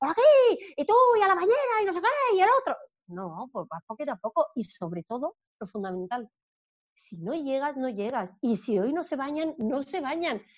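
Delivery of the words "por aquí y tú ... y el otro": put-on hysterical shouting, loud and high. Retelling bath time with the children: imitating her past shouting. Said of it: "no hablo gritando, que a veces yo antes".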